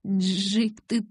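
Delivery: slow, trembling, rising words; squeezed out, shivering. A narrator's reading. Bella warns Jacob he'll freeze, shivering. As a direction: force it out through chattering teeth. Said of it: "выдавила я".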